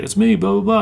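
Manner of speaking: put-on old Chinese man voice. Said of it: "but he's like".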